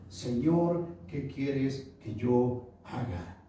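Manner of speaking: very slow, humble question, understated awe; fearful reverence. Retold or imitated. Preacher voicing Saulo before God, understated fearful reverence. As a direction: draw the words out in mild, acted awe. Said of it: "él temblando y temeroso dijo".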